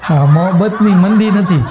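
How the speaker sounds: correcting the title through laughter; laughing. Real, not acted. Correcting his wife about the film, laughing. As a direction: chuckle while setting it right.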